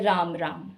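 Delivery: drawn-out राम राम, the two words stretched with space between; राम राम said low and evenly as a greeting to an elder; respectful greeting. Shown as a demonstration. Hindi teacher shows greeting an elder, respectful drawn-out राम राम. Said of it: "कि हम उन्हें बोलते हैं".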